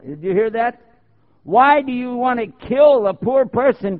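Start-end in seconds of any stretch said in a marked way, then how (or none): 1.4-4.0 higher, louder mock indignant questioner; a hint of an indignant critic; mimicking critics. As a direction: parrot the critics' outrage. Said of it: "That's what they say now".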